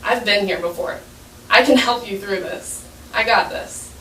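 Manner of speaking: quietly assured, acted lightly; calm. Teacher to the frustrated boy in the hole, calm. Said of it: "she's all calm and everything".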